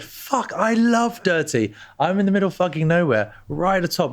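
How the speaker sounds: playful imitation of a Welsh woman; Welsh accent. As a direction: butcher a Welsh accent on purpose. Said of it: "I'll butcher the Welsh accent".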